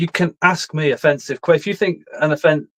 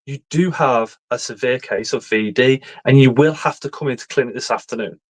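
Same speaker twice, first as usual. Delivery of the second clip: mock doctor voice. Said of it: "I says".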